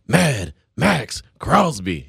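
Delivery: action mode voice. Shown as a demonstration. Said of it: "see where I'm coming from here".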